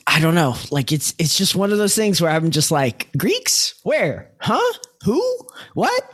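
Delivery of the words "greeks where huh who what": high, startled confused yelps; baffled questions. Retold or imitated. Retelling her confusion at the film, baffled high yelps. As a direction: play dumb and bewildered, each word a jolt.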